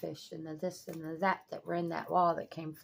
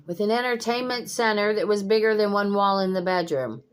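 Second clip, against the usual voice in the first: incredulous exclaim; 5 semitones higher, 9 dB louder than usual. Real, not acted. Incredulous at huge furniture.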